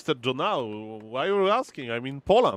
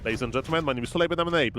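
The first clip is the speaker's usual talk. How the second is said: fast as possible; much faster than usual. Shown as a demonstration. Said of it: "I will say it as fast as I can".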